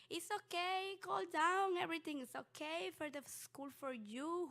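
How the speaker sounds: put-on loud, high-pitched soothing of an upset kid; reassuring. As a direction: imitate a secretary urgently comforting someone. Secretary hugs and comforts crying student.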